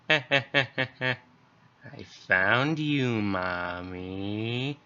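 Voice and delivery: slow sinister sing-song; dead son's chilling voice at the door; creepy child monster. Acted. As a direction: savour finding her, eerie. Dead son finds mother.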